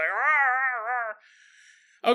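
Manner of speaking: high, loud mock Wookiee growl; Chewbacca roar. Fake Chewbacca proves himself with a mock Wookiee roar. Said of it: "That's not what Chewbacca sounds like".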